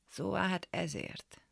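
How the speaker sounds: soft, slow realisation under the breath; quiet dawning understanding; muttered. A narrator's reading. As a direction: mumble it to yourself. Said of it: "dünnyögte a bátyám".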